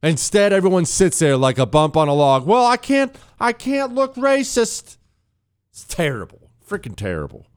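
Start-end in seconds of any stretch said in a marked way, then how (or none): 2.5-5.0 high, slow whiny mock fret; high whiny mock fretting; mocking coward. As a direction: mimic timid reporters. Mocking timid reporters.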